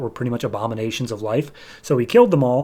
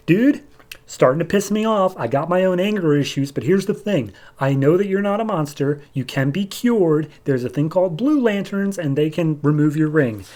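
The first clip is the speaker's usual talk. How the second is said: higher-pitched acted dialogue, fed up but reasoning; exasperated appeal; 4 semitones higher than usual. Guy scolding the rampaging Jack.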